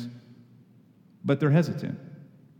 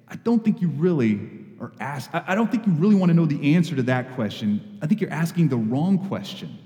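kindly; 2 semitones higher than usual. Shown as a demonstration. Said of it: "Just kindly say".

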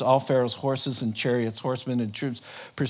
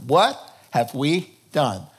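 Pharaoh voice; 7 semitones higher, 4 dB louder than usual. Acted. Pharaoh voiced mocking Israelites.

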